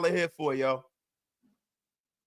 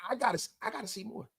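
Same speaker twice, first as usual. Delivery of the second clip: hushed; 3 semitones higher, 10 dB quieter, faster than usual. Acted. Repeats catchphrase after the shouts.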